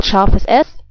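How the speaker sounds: "scharfes S" said in German, "SHAR-fes ess"; German pronunciation. Shown as a demonstration. Teacher giving the letter's other name, "scharfes S" in German pronunciation. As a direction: say "scharfes S" as a native German would. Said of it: "also called".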